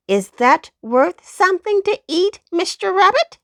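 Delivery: high, bright little-dog cry; poodle exclaiming. A narrator's reading. Poodle dog finishing tricks for the rabbit, high and proud. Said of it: "exclaimed the poodle doggy".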